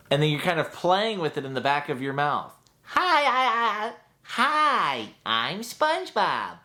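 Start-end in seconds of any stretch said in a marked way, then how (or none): 2.8-6.6 much higher, slower cartoon sponge greeting; SpongeBob voice. Shown as a demonstration. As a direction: bounce the hi's up high then settle. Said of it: "pushing that to a higher register".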